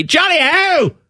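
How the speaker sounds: mock the English with a high call; mock English cry. Mocking an English greeting.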